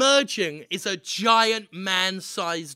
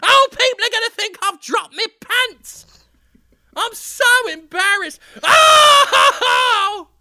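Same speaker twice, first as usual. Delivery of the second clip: high, loud hammed-up whine; high, loud mock-mortified skeleton; embarrassed skeleton; 12 dB louder, slower than usual. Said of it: "He's looking down saying".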